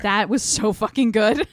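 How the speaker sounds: loud, thrilled praise with a laugh; excited outburst. Real, not acted. Two fans raving about the robe trick, loud and thrilled.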